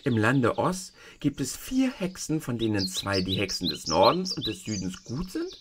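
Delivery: a hint of a kindly tiny old woman; old witch of the North. The tiny old woman shows Dorothy the feet, gently voiced.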